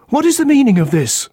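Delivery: high, insistent "What is the meaning of this?" pressing on "is"; husband insisting on an answer; alarmed demand. A narrator's reading. Husband repeats demand to inspector.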